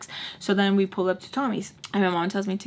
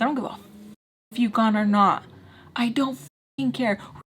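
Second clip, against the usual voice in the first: higher-pitched indignant rant; retold going off; 5 semitones higher than usual. Tommy going off on Heffany, acted indignation rising in pitch. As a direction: build from dismissive to high, heated challenge. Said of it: "So it's going off on Heffany".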